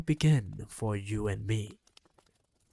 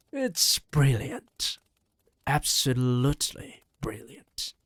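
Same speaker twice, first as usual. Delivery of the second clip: delighted shout; 4 dB louder than usual. Acted. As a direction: shout it with a great grin. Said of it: "she shouted".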